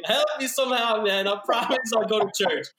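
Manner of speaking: retelling his roadside prayer, desperate pleading; desperate mock prayer. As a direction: beg the heavens like a panicked drunk. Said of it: "I was fucking praying".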